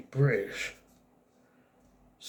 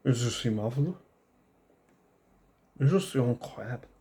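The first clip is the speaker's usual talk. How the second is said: exaggerated French accent. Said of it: "I can speak with a French accent here".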